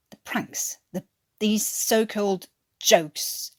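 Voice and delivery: unvoiced, slow hissed words; seething whisper. Watkins to Newkirk, a slow seething whisper. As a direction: breathe the words through rage.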